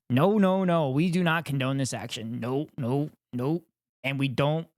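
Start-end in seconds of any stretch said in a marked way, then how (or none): 0.1-3.6 mock disapproval. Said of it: "shaking our heads no".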